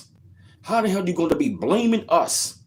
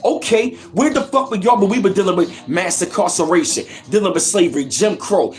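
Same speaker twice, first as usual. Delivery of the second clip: heated rant; 5 semitones higher than usual. Real, not acted. Vlogger ranting at Latino viewers, angry and raised. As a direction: tear into them, voice climbing.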